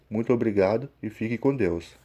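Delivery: usual speaking voice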